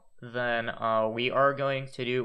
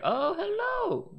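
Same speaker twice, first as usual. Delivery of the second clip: slow, high sultry purr; femme fatale; much slower than usual. Pretend. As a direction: coo it like a seductress. Seductive greeting to a Pokemon.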